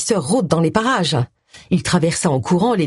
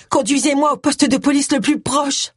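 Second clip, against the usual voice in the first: urgent, higher pleading plea; 8 semitones higher than usual. Acted. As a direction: beg to be driven to the police. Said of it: "supplia Roy".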